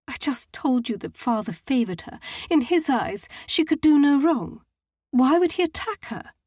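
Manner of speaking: rising to a high, loud indignant protest; indignant scowl. A narrator's reading. Matilda defends her father's favour, indignant and high. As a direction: throw the question back at him. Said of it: "She scowled".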